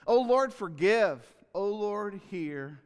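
fervent cry of "O Lord, forgive", slow and loud; passionate plea. Acted. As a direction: plead it with full fervent passion. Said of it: "Look at the passion".

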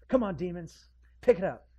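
high, mocking call to the demons; coaxing demons, hammed-up; mock exorcist. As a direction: ham up a silly exorcist.

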